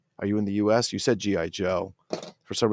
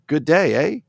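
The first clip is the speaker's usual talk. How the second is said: loud, high Canadian greeting; Canadian accent; 7 semitones higher, 7 dB louder than usual. Shown as a demonstration. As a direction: put on a Canadian accent, lifting the end.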